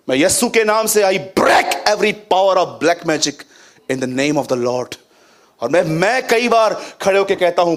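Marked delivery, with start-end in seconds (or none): 0.1-5.0 slow declaration, hard punch on "break"; forceful prayer command. Acted. Preacher breaking black magic in prayer, slow commanding declaration. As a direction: declare it slowly with authority, dropping low to close.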